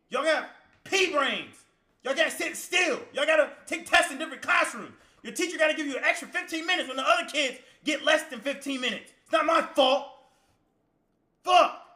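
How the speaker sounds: muffled through a ski mask; through a balaclava. Real, not acted. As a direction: talk through a face covering. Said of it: "I got this ski mask on".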